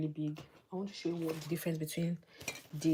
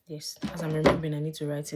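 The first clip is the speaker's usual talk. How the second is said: sudden remembering; 7 dB louder than usual. Real, not acted.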